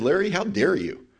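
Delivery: indignant, rising to a high, loud righteous rant; defiant outburst. Retold or imitated. To brother-in-law Larry, over the car, indignant shout. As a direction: get in his face, offended that he doubts you. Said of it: "So I got right in his face".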